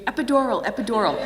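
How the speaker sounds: half-laughing retold shout of the word; mock scream. A mother retelling her advice to scream epidural, mock yell. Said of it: "Run into the emergency room and scream".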